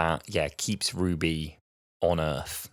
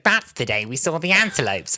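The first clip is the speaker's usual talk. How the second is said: mock dreamy child; 7 semitones higher, 3 dB louder than usual. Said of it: "And she's like".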